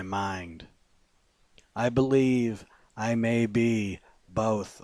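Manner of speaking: measured poem recitation with deliberate pauses; poetry reading. Acted. Poet reads own poem for a listener, measured recitation. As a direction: recite line by line, leaving space between phrases.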